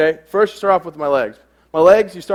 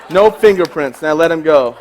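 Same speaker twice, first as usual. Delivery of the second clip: louder punchline; plain loud repeat; 7 dB louder than usual. Shown as a demonstration. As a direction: say it out loud to the room. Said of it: "I whisper".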